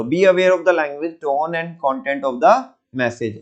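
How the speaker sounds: each word laid out slowly for notes; dictating the point to students, slow and deliberate; slow dictation. Shown as a demonstration. Teacher dictating a note to the class, very slow.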